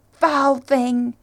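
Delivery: loud, forceful denunciation; commanding shout. A narrator's reading. Narrator and Treth denounce the fangs, shouting. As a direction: shout it at the monster. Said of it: "we shouted in perfect unison".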